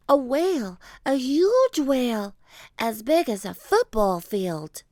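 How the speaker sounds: put-on high, loud little girl voice; a kid amazed by its size; excited girl. Annie describes the whale, high and excited.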